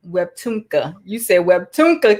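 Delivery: talking around braces. Real, not acted. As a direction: braces in the mouth. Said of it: "Look, I can't talk. I got braces in my mouth".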